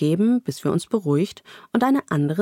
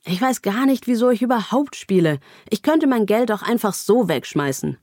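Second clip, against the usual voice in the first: exasperated poker player, pitched higher; incredulous; 4 semitones higher than usual. Acted. Poker player on tilt complaining about losing money, incredulous. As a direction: act out mild disbelieving frustration. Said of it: "hört man eine laute Stimme, die ungläubig ruft".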